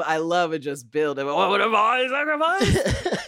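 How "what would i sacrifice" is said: slow, high, laughing mock-grand reading; mock dramatic. Co-host parodying the monologue, laughing mock drama. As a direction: ham it up while laughing.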